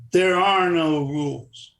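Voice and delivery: slow, menacing delivery; mock tough-guy menace; intimidating. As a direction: lay it down slowly like a threat. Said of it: "he tried to intimidate me".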